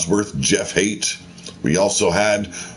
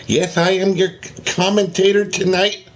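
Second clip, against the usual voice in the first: high blustering commentator character; B J Blowhard voice; 8 semitones higher than usual. Acted. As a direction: puff up as a pompous blowhard commentator. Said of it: "This is B J Blowhard".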